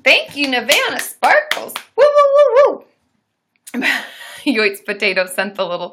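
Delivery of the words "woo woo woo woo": very loud high playful monkey hoots. Pretend. Celebrating a donor on stream with loud monkey hoots. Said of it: "We've gone bananas".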